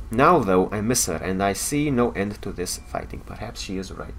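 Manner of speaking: a soldier's weary log, read evenly; Cardassian officer's log. Acted. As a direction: voice the officer, tired of the war.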